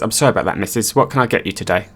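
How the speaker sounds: flat, lifeless service voice; dead-eyed, going through the motions; deadpan. Retold or imitated. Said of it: "Manager has dead eyes".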